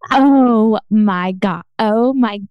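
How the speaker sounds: drawn-out, mortified exclamation; retold mortification. Daughter reacting to mom's unfiltered tattoo remark, retold mortification. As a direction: stretch it out slowly, dying of embarrassment. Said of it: "I was dying".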